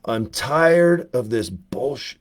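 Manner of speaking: very slow screen-rebel impression; James Dean. Actor coming back after a long pause, slow drawn-out delivery. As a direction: take your time, dragging out each word. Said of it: "he'd pause and just go".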